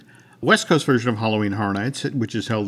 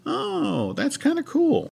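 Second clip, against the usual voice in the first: high mock reaction; slower than usual. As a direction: squeak it out, impressed. Retold reaction, voiced high.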